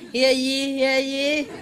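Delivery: high, hammed-up town crier call; roaring rallying speech. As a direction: proclaim it like a herald. Mock women's rally proclamation.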